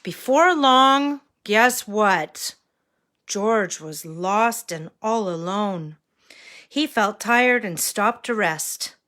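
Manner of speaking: put-on bright storybook reading for little kids; reading to a toddler. A narrator's reading. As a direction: read it like to a small child. Reads story to children.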